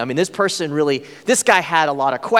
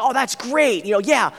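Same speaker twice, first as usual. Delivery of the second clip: nice host; 3 semitones higher than usual. Retold or imitated. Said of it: "super nice".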